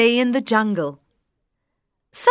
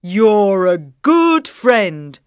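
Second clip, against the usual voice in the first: slow, louder grateful lion; lion voice, slowly; 2 semitones lower, 5 dB louder than usual. Acted. Freed lion thanks the mouse, slow. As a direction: thank him like a big lion. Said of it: "says the lion".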